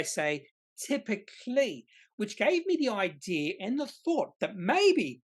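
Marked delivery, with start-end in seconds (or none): 0.8-1.9 typically lifted high and drawn out slowly, mocking; mock the vague wording; a wry dig at the word typically; mocking wishy-washy. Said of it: "a little bit more wishy-washy".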